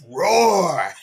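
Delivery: a light playful roar; mock lion roar. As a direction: growl it out like a lion. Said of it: "I need a roaring sound on here".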